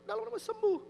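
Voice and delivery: high-pitched imitated prayer; retold healing prayer. Preacher retelling prayer over kneeling man, high command.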